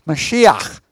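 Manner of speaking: Mashiach with a throaty ch at the end; Hebrew word. Shown as a demonstration. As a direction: say Mashiach, ending on a rough kh sound from the throat. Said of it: "the root that I ask you to try to pronounce".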